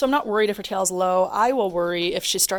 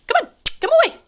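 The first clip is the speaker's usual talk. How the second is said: rising call; 8 dB louder, much faster than usual. Real, not acted. Calling dog, rising to shout.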